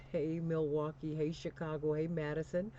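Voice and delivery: hearty city call-outs settling into low, measured call signs; radio station ID. Real, not acted. Host hails listening cities before the break, announcer style.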